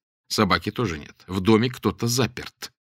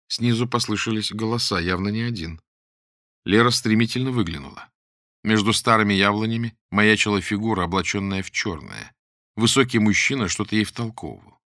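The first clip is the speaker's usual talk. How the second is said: plain reading voice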